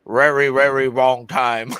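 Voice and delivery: a hammed-up Chinese accent, drawn out; mock Chinese accent. Dad imitating daughter's Chinese boyfriend for his buddies, mock Chinese accent. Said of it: "She makes him talk in his accent".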